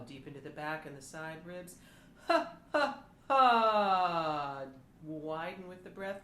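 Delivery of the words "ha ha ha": loud, much higher ha pulses. Shown as a demonstration. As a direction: fire has high from the ribs. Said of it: "our ha-has up in the range".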